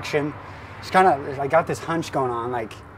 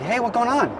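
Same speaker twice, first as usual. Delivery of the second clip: high-pitched mock Tongan accent; roughly faked Tongan accent, pitched up; Tongan bad-English impression; 8 semitones higher than usual. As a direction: imitate a Tongan man's broken English. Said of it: "Asian bad English".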